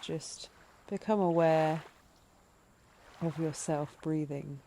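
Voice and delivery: calm, measured breathing-meditation voice, leaving space between phrases; guided meditation. Acted. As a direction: gently lead listeners into noticing the breath.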